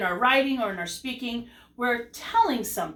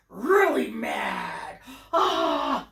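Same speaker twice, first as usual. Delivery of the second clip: mad; 3 semitones higher, much slower than usual. Shown as a demonstration. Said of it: "like Hulk".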